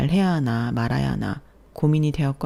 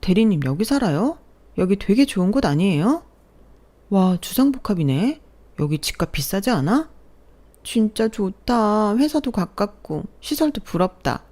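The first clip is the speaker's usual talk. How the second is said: excited coworker; 5 semitones higher than usual. Acted. Coworkers excited at new apartment.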